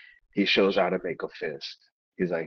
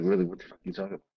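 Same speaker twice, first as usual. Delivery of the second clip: incredulous; 10 semitones higher, much faster than usual. Retold or imitated. Player's incredulous retort.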